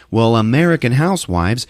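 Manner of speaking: high, loud, indignant retort; hammed-up marital exasperation. Husband argues with wife.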